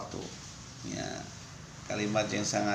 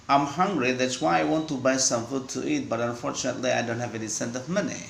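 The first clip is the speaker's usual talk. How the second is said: in one breath. Shown as a demonstration. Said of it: "diupayakan satu napas begitu kalau bisa".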